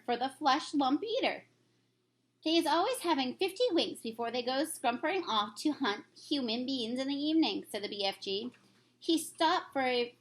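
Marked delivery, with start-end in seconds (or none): 2.4-7.6 a lightly voiced kindly giant; friendly old giant, lightly put on; BFG voice. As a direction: read the giant's lines with gentle storybook character.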